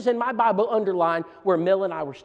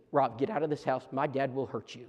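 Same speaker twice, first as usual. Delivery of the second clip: softer, hushed plea to leave; urgent quiet warning; 4 semitones lower, 8 dB quieter than usual. Retold or imitated. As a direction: get your friend out before harm. Friend urgently warning him quietly.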